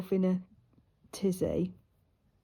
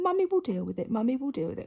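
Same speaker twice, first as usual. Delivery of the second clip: retold tearful plea, pitched up high; mock crying through the words; 5 semitones higher, faster than usual. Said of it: "I was crying".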